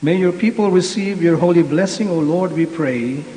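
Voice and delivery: solemn, measured prayer voice; liturgical prayer. Acted. Priest prays the blessing.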